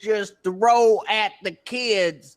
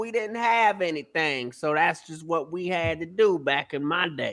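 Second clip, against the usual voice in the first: usual speaking voice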